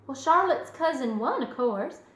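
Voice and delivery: lightly voiced child explaining; lilting, self-assured young storyteller; matter-of-fact girl Fern. Fern telling mother how the fight ended, matter-of-fact. Fern finishes her tale.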